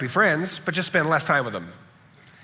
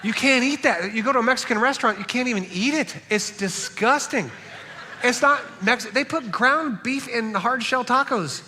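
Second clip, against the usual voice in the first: excited rant; 10 semitones higher than usual. Real, not acted. Pastor ranting to the congregation about Texas tacos, high and laughing. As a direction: rant with amused disgust, pitched way up.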